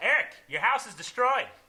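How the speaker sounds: mock, high, very loud, sorry, scared and excited. Retelling a friend's phone call about the house: imitating a sorry, scared, excited tone. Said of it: "the tone of voice was like, like, sorry, scared, and excited".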